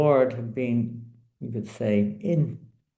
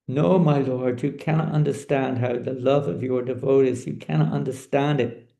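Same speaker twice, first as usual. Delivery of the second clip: raised pitch, emphatic correction; earnest insistence; 5 semitones higher, 4 dB louder than usual. Acted. Queen corrects her lord about devotees' love, insistent. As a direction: insist on it, pressing each phrase.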